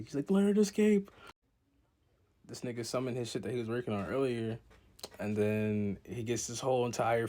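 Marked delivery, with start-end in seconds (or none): 0.3-1.1 high commanding voice. Retold or imitated. Character voiced in recap.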